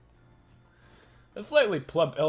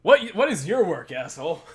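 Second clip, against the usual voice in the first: angry detective; 5 semitones higher, 7 dB louder than usual. Acted. Detective character interrogating.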